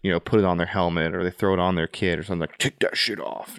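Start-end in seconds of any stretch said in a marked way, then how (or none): 2.6-3.6 slow, lightly voiced barked order; mock gruff order. Superior ordering a soldier to remove a patch, mock gruff. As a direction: imitate a disapproving superior, drawn out. Retold order crushing unit morale.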